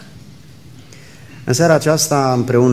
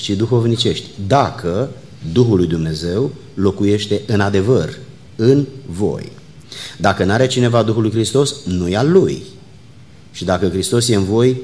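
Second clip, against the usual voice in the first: measured, emphatic Bible reading aloud; Scripture reading. Acted. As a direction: read the passage out to a congregation, phrase by phrase. Reads Scripture aloud to congregation. (citire solemnă din Scriptură)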